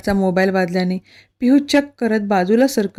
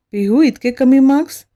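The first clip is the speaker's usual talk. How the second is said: higher, sharper irritated question; angry; 4 semitones higher, 3 dB louder than usual. Acted. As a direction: demand an answer, annoyed. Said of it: "तो चिडून बोलतो".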